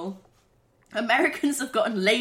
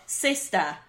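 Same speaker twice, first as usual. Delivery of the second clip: put-on Boston accent; 2 semitones lower than usual. Second try at sister for partner, Boston accent. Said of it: "It's my Boston voice".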